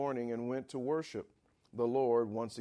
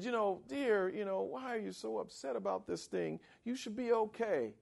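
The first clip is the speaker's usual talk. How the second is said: higher, softer gentle coaxing; tender husband; 8 semitones higher, 4 dB quieter than usual. Retold or imitated. Husband gently comforts his upset wife, soft and tender. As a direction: soothe her like a loving husband. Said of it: "At least her husband said".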